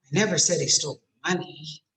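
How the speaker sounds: "money" set apart with a rising end; questioning lift on the last word, "money"; stress on money. Shown as a demonstration. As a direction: hold back, then lift "money". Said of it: "put stress on a different word".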